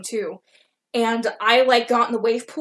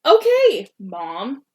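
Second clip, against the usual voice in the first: sarcastic; 5 dB louder, much slower than usual. Retold or imitated. Sarcastic reply to bossy friend.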